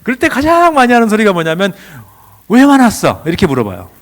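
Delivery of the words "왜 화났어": loud, high demanding question; confrontational questioning. Acted. Parent challenging an angry child, confrontational.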